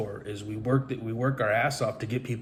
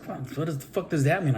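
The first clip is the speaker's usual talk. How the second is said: baffled retort; 6 semitones higher than usual. Retold or imitated. His baffled reply to friends.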